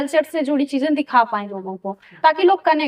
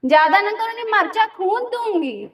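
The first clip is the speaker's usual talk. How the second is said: Pappi; 5 semitones higher than usual. Shown as a demonstration. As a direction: act out a catchphrase warning in a raised, stretched tone. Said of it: "ये tone रहता था उसमें".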